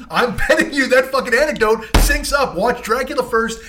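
laughing boast. Real, not acted. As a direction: chuckle through the bet.

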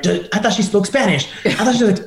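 a hint of a doubting journalist; mock reporter. Reporters questioning the singer's Spanish, lightly mocking. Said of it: "they're asking her the questions like".

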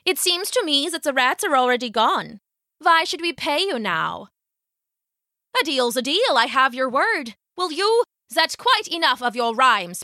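lightly voiced, dismissive mayor; stingy mayor. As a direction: brush the piper off as a miserly official.

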